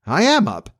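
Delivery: put-on high, pleased boyish voice; surprised boy. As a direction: declare it high, amazed at yourself. John finds himself up already.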